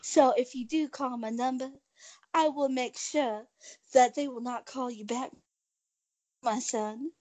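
Southern accent; charming put-on Southern accent. Shown as a demonstration. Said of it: "I do have some Southern charm".

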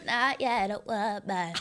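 slow pop star nasal; pop star impression. Shown as a demonstration. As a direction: drawl it like the pop star, slowly. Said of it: "Do your pop star impersonation".

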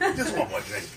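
low, soft tipsy detective; mock-drunk detective, dropped low; Columbo. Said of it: "gets drunk and does Columbo impressions".

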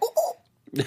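high, drawn-out ooh of shock; scandalized ooh. Retold or imitated. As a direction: react like the scene just got juicy. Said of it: "I was like".

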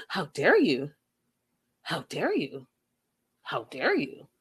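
hammed-up indignation, fading; sarcastic how dare you; mock outrage.

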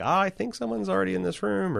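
put-on high, bright Minnesota accent. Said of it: "That's my Minnesota accent".

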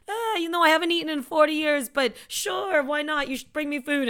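lightly imitated complaining old man; old Jewish man. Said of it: "Eddie Murphy playing an old Jewish man".

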